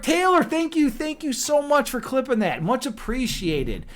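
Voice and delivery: high-pitched, grateful burst; delighted thanks. Real, not acted. Streamer thanking a viewer for clipping, delighted. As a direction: thank a friend with lifted, excited pitch.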